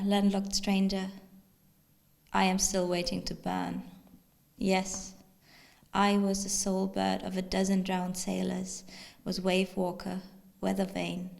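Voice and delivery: deliberate, declaimed verse with pauses; poetry reading. Acted. Poet voices storm petrel to landlocked stranger, declaimed recital. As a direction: recite as a proud address to a stranger. Reads poem in voice of bird.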